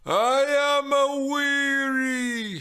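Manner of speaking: slow, loud, weary moan. Acted. Mimi as the nurse moaning, slow and worn out. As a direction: groan it out like a tired old nurse. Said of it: "she moaned".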